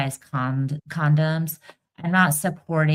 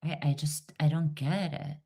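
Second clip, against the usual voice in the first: whispering; 2 semitones lower, 8 dB quieter than usual. Real, not acted. Exasperated aside.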